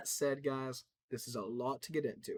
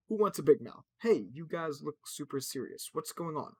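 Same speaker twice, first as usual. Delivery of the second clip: louder, higher cheerful robot voice; chipper robot; 3 semitones higher, 7 dB louder than usual. Acted. Robot bursting in on a serious team, loud and high. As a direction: bounce in, oblivious and bright.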